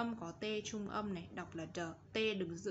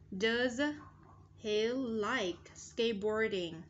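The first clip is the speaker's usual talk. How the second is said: slow model reading; 4 dB louder, slower than usual. Shown as a demonstration. Teacher models question for pupils.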